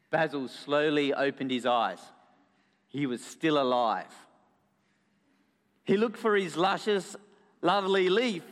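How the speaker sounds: measured storytelling with dramatic pauses; story narration to children. A narrator's reading. Storyteller tells children about Basil, narrating dramatically.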